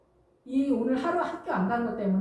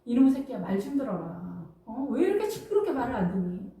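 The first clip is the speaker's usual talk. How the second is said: scolding parent. Acted. Mother tells her child to listen, mildly acted scolding. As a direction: imitate a nagging mom telling off her kid. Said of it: "부모들도 마찬가지예요".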